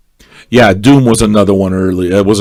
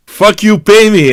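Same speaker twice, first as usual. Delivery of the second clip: quoted much higher and louder, gleeful; quoting the lyric; 10 semitones higher, 4 dB louder than usual. Retold or imitated. Streamer quoting his new theme song, gleeful and loud. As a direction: belt the hook back, delighted. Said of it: "I think I found my theme song".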